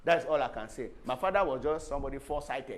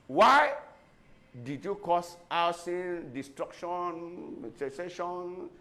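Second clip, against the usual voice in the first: imitated interrogator; much slower than usual. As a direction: mimic an accuser spelling out charges slowly. Voices the interrogators' questioning of Oliver.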